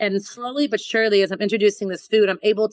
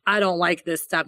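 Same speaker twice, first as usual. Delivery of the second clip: imitating a French chef's accent. Chef quoting a French fellow judge, French accent. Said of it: "that was a good French accent".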